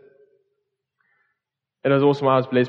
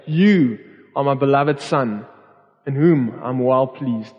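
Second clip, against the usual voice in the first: slower, close and tender, spoken to one person; tender, intimate; slower than usual. Retold or imitated. Father lifting up his son, speaking tenderly and slowly. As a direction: say it gently, as if holding your child. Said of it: "it's like him picking up Jesus and saying".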